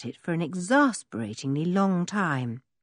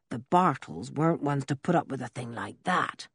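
lower, gruff country voice; rough old blacksmith; 3 semitones lower, 4 dB quieter than usual. Acted. Blacksmith Ben's voice.

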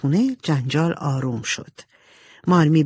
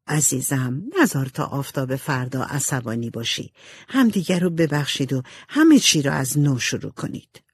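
a hint of a lower, motherly counselling voice; lightly voiced gentle mother; 3 semitones lower than usual. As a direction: soothe a daughter gently before sleep. Marmee counsels Jo at bedtime.

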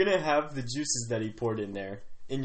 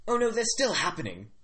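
much higher mock British voice; put-on British accent; 10 semitones higher, 4 dB louder than usual. Chief's son reassuring a disappointed guest, put-on British accent. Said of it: "changing this to a British accent".

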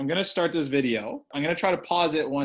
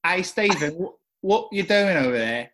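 a mock Eastern European accent, slightly higher; put-on foreign accent; 4 semitones higher, 3 dB louder than usual. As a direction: greet Stephen in a hammed-up foreign accent. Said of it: "Guess the accent".

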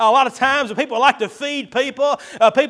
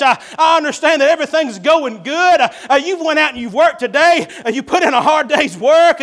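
reluctant wife. Acted. Wife voiced protesting to Solomon.

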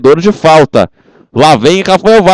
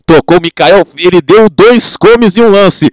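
excited replay; 6 semitones higher than usual. Real, not acted. Goal replay narration.

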